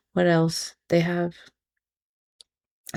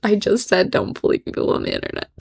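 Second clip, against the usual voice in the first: laughing at herself. Real, not acted. Laughs at own hypocrisy.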